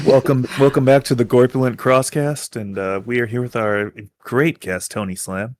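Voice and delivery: mock radio welcome, settling down at the end; soothing radio voice. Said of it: "That's a good radio voice. Like, it's soothing".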